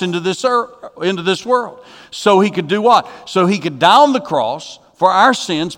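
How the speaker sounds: driving, emphatic sermon delivery; emphatic preaching. Real, not acted. Preacher telling the congregation none deserved God's love, emphatic. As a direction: preach it with building insistence.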